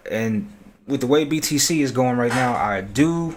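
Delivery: reverb echoing in a big room; big hall echo. Real, not acted. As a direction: voice bouncing around a hall. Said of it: "Sorry about the reverb".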